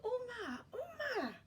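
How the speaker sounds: high, loud panicked cries; panicked shriek. Acted. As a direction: shriek in terror at the sunrise. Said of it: "The Patupaerehe shrieked".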